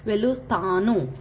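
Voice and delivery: वेलुस्थानु with the थ softened halfway between त and थ; sound between t and th. Shown as a demonstration. Teacher models the in-between t sound for students. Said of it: "त और थ के बीच वाली आवाज़".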